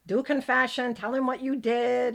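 ordering her to confession; mother's orders. Retold or imitated. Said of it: "She was like".

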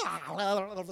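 mock possessed yell with garbled gibbering; put-on demonic outburst; demon-possessed cry. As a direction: imitate someone possessed, babbling briefly. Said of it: "somebody gets possessed by a demon".

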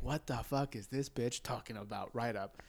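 low, soft inner grumble; subdued, incredulous thought; cursing in one's head. Retold or imitated. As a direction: grumble it privately under your breath. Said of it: "already cursing in my head".

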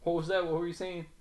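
mock the rapper's line loudly; impression of a rapper. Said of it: "that was not a good impression of a rapper".

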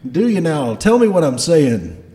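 challenging Scottish dwarf boss; loud, testing Scottish accent; Garm. Acted. Dwarf boss challenging a crewman to repeat orders, Scottish accent. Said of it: "has a Scottish accent".

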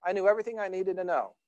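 put-on high, insistent childish protest that speeds up; boy protesting. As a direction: make your case like an upset kid. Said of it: "he said".

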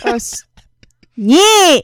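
very high, loud mock squeal; horrifying put-on voice. Teasing a player about in character stuff, horrifying put-on voice. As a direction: belt out a horrible high cheer. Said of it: "Don't make that voice. It's horrifying".

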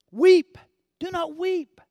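Weep. called out high and loud; commanding call, loud and high. Acted. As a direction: boom the command. Jesus's command quoted loudly.

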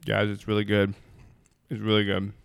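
talking while chewing, lips smacking; mouth full. Real, not acted. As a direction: say it mid-bite, smacking lips. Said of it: "smack my lips into the mic".

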